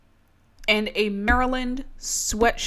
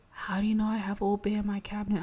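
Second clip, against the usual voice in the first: shocked roommate; 4 dB quieter, faster than usual. Retold or imitated. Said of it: "She was like, gasps".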